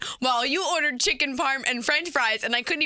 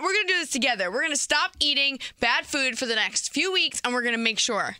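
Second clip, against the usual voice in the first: chewing noisily; 4 semitones higher than usual. Real, not acted. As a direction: mouth full of pizza. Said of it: "I was chewing my pizza".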